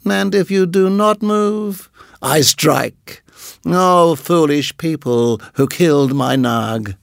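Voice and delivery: slow menacing snake voice. Acted. Nagaina menacing.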